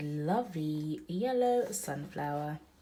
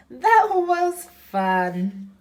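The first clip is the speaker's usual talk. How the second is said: higher, louder, slow altered voice; ducks' cheerful voice; 11 semitones higher, 12 dB louder, much slower than usual. Acted. Mom voicing the duck friends, high and slow. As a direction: say it like happy little ducks.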